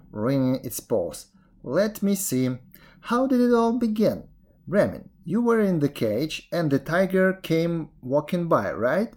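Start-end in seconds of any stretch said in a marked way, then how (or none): 1.6-9.1 higher-pitched puzzling aloud; muddled jackal. Acted. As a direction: work it out in confusion.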